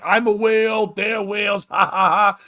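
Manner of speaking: put-on drunk party guy. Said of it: "especially when you're drinking".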